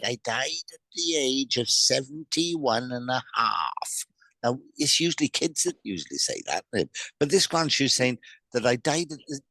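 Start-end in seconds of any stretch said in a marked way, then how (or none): 0.0-4.0 put-on slow, hushed whisper of an old grandmother; slow ghostly whisper from the other side; whispered spirit voice. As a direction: breathe it like a voice from beyond. Medium voicing a spirit grandmother.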